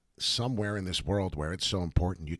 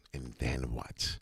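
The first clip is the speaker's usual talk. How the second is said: spooky slow question; deep theatrical tease; slow low put-on voice; 9 semitones lower, 6 dB quieter, much slower than usual. Shown as a demonstration. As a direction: drop low and drag it out. Repeated question, second take put-on.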